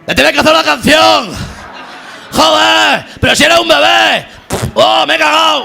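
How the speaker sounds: high-pitched put-on daughter voice; mock-tender child voice. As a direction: pitch it way up for a hammed-up little kid. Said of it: "una voz tierna y tal".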